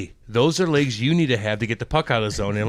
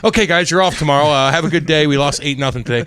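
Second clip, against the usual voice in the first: meek coach; 6 dB louder than usual. Retold or imitated. Coach Andy Murray tells the team they're off tomorrow, louder and sheepish. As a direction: sheepishly give in to the players. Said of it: "Andy would walk back".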